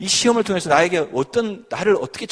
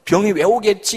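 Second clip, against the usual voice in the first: higher, slow grumbling question at fate; resentful complaint; 6 semitones higher than usual. Retold or imitated. Believer retelling her old self-pity, mock grumble. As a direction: voice the old bitter thought, lightly. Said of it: "이렇게 생각하는 게 아니라".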